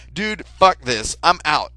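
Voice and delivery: loud, slow, final; fed-up exit. Retold or imitated. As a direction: drag it out and leave. Walking out on killer.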